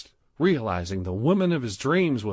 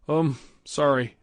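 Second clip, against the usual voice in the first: panicked; 6 semitones higher, 5 dB louder than usual. A narrator's reading.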